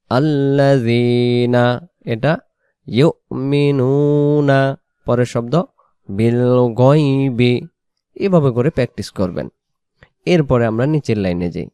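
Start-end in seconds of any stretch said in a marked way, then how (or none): 0.1-7.5 each word drawn out very slowly; word by word recitation. Shown as a demonstration. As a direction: stretch every word for students to copy. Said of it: "এটা বলেন". (শব্দে শব্দে টেনে পড়া)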